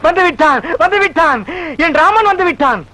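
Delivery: theatrical, high-pitched announcement; excited crying out. Acted. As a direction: cry it out like a devotee. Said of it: "கத்தாதயா".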